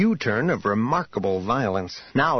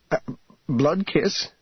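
hesitant question, lifted on "blood"; a bit anxious; 6 semitones higher, slower than usual. A narrator's reading. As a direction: query it with a touch of unease. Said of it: "asked a bit anxiously".

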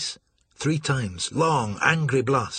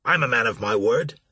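stoutly; 5 dB louder than usual. Acted. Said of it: "Marsh said stoutly".

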